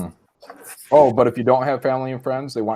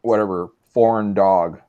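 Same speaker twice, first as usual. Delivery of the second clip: lower, slow dismissive brush-off; dismissive girls; 4 semitones lower, slower than usual. Acted. Girls unimpressed by an American accent, dismissive. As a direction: brush them off, slowly. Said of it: "do they hear American accent and they're like".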